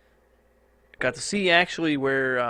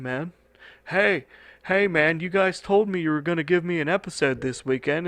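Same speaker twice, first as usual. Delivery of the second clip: higher-pitched mock complaint from an aggrieved fan; upset listener; 5 semitones higher, 4 dB louder than usual. Listener griping to the podcaster about a missing episode, mock upset. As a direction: whine at the host in mock outrage. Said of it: "so you guys are not like".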